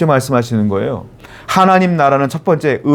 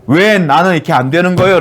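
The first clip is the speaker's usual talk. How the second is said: mildly plaintive protest to God; acted, reproachful questioning; resentful complaint. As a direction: imitate an aggrieved churchgoer. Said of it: "라고 늘 원망하는 분들이 있어요".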